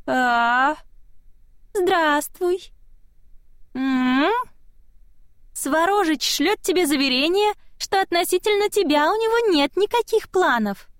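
put-on high eerie child voice; a tiny spirit delivering a message sweetly; high childlike spirit messenger voice; small child voice. A narrator's reading. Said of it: "голосок".

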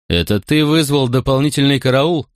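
strict officer questioning a recruit; stern commanding tone. Acted. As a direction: sound like a stern centurion. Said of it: "строгим начальственным тоном".

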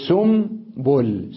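سنبل drawn out as "summ-bul"; nun turned to mim. Shown as a demonstration. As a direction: slowly hold an m in سنبل. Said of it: "تصبح سنبل".

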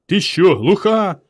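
high, loud exasperated shout; roaring. A narrator's reading. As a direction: yell at someone who didn't hear. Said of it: "заревів бугаєм Іван".

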